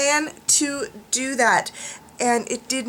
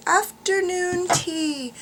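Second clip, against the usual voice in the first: posh voice; 7 semitones higher, much slower than usual. Pretend. Repeats phrase in posh voice.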